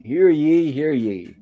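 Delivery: a hint of a town crier calling out; mock proclamation. Mister Howell proclaiming to the castaways, mild herald call. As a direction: lightly announce it like a herald. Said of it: "making a proclamation".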